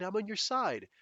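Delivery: imitating a fake ally again; mock eager ally. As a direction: repeat it with mock sincerity. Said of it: "people trying to say".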